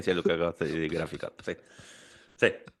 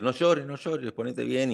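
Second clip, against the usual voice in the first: higher, sing-song mock comforting of no llores; mock soothing; 4 semitones higher, slower than usual. Friend parodying people who hush crying, mock soothing. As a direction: parody the pushy comforter, hammed-up. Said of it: "es como el, el decir".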